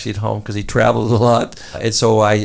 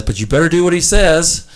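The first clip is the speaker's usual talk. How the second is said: warning; 4 semitones higher, 3 dB louder than usual. Retold or imitated. Shaman's warning.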